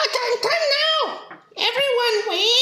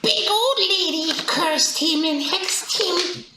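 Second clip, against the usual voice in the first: low creature voice; 5 semitones lower than usual. Acted. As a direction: croak it out like a goblin. Player voices a greedy creature.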